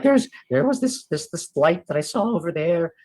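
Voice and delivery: a hint of an excitable watchman; uneasy lookout. Player voices character reporting a light.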